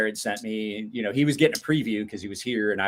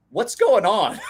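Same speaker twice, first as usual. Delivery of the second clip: put-on confused kid; 9 semitones higher, 7 dB louder, slower than usual. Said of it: "looking at me like".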